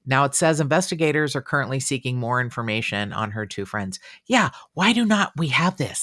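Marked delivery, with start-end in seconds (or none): 4.2-6.0 high exasperated outburst; exasperated shout. Real, not acted. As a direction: cry out in frustration. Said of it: "I sounded like t-, the Tasmanian devil".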